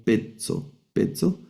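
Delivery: "pezzo, pezzo" with a plain E, said as "pet-so"; diphthong as E. Shown as a demonstration. Teacher repeating the correct Greek reading, E sound. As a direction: repeat "pezzo" in two neat syllables with E first. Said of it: "la vamos a leer como E".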